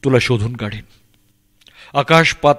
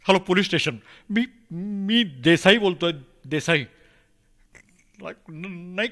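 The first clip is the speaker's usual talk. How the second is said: higher-pitched, halting worry; flustered caller searching for words; anxious phone report; 4 semitones higher than usual. Acted. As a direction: plead nervously with the police on a call.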